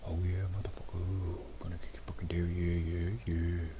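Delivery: put-on whispered drunken taunt; whispering. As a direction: hiss the taunt under your breath. Same chant whispered.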